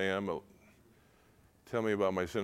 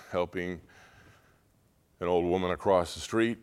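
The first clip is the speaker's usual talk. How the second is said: normal talking voice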